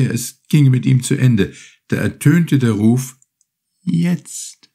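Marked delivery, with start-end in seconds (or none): 3.8-4.7 turtle calling. Acted. Turtle calls the signal.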